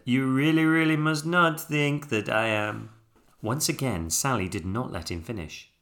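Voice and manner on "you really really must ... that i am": put-on higher, louder French-accented insistence. A narrator's reading. Albert trying to explain himself, insistent French accent.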